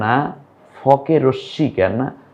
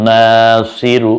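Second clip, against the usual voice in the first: শাহিদা stretched syllable by syllable, each vowel held long; slow drawn-out reading; 3 dB louder, much slower than usual. Shown as a demonstration. Teacher to learners, showing the joined word, very slow. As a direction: draw out শাহিদা slowly and clearly. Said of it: "মিলে কি হলো?".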